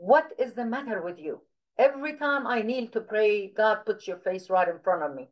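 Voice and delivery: lightly acted reproach; retold scolding. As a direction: scold like a concerned woman preacher. Preacher's rebuke, retold in her voice.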